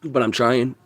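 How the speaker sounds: weak breathless voice; pushing words out with little air; out of breath. Real, not acted. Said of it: "Let me breathe".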